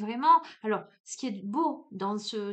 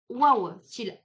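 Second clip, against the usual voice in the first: Marseille exclamation; 7 dB louder, slower than usual. Acted. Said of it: "en digne marseillaise que je suis".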